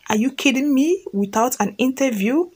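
understated amazement at being hired; surprised. Acted. New hire hears she got the job without interview, mildly surprised. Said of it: "Miss Blue was surprised and said".

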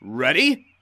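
meet his scorn calmly; calm determined. Acted. Toby answering James before pulling, high and sure.

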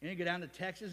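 normal talking voice

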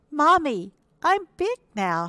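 high, loud little hippo calling Mommy; excited cry. A narrator's reading. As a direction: call out the big news in a high child voice. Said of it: "he cried".

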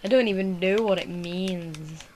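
loud, slow, insistent; exasperated protest. Real, not acted. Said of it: "loud slow protest".

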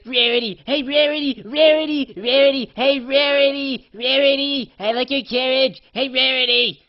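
high, loud repeated shouting of a name; yelling across the street to get her attention; excited calling out. Retold or imitated. Pony shouting at a passing friend, high and loud. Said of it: "I'm like, I'm like".

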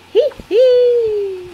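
giggling. A narrator's reading. Peppa vows to stay awake, giggling happily. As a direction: end on a gleeful giggle.

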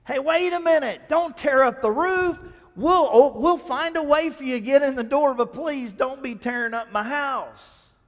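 high, loud protest; a homeowner crying out to stop the damage; upset homeowner. Acted. Homeowner protesting roof being torn.

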